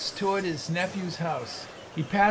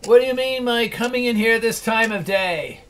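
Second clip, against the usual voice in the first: louder mock-stern scolding; feigned gruffness; 4 semitones higher, 4 dB louder than usual. Scrooge pretending to scold late clerk Bob, mock-stern. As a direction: pretend to be the old tyrant. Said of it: "in his accustomed voice, as near as he could feign it".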